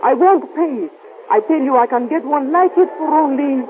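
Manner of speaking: put-on mildly heated refusal with a foreign accent; indignant haggling. Woman refusing a seller's price, indignant haggling.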